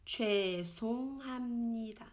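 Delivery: 죄송합니다 whispered. Shown as a demonstration. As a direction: murmur 죄송합니다 as an aside. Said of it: "c'est plutôt 죄송합니다".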